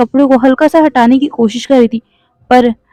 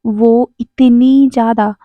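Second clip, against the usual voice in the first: slow, stretched tease; teasing pause before the punchline; slower than usual. Acted. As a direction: stretch it out to build suspense. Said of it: "wing कहता है".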